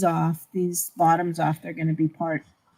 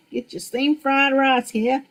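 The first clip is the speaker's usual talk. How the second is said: American accent; 5 semitones higher than usual. Shown as a demonstration. Answers the American accent demo.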